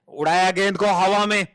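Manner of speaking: rising boundary call; excited cricket commentary. Acted. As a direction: lift for the four.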